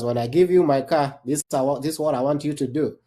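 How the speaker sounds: ordinary delivery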